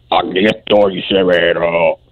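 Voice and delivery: very deep, slow devil voice. Acted. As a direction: growl it low like a toad devil. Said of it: "Tiene, tiene voz de sapo".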